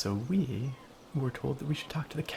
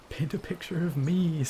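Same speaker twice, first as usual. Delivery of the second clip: character voice; 6 semitones higher, 4 dB louder than usual. Retold or imitated. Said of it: "says Otter Nerd".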